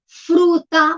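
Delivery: FRUTA split in two, FRU, TA; syllable by syllable. Shown as a demonstration. Teacher gives complex-syllable example, syllable by syllable. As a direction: say FRUTA in two distinct beats. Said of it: "estruturas silábicas mais complexas".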